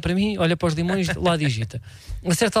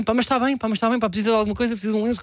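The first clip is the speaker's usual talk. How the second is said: flustered offer of help; 3 semitones higher, faster than usual. Retold or imitated. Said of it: "eu assim".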